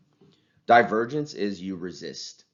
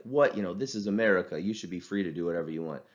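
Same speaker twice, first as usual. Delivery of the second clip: over the top outrage. Retold or imitated. Teacher mocking an over-accommodating friend, hammed-up outrage. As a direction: ham up the patriotic outrage. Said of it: "go way over the top emotionally".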